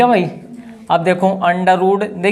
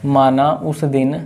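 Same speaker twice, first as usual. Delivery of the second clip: very slow, lower dictating voice; slow dictation; 5 semitones lower, much slower than usual. Real, not acted. Teacher dictating question six to class, very slow dictation. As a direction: stretch each word for students writing.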